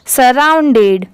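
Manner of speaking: सराउंडेड clearly as "sa-round-ded"; repeat-after-me model. Shown as a demonstration. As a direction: say सराउंडेड for learners to copy. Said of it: "आप भी मेरे बाद repeat करिए". (सराउंडेड, दोहराने के लिए साफ़ उच्चारण)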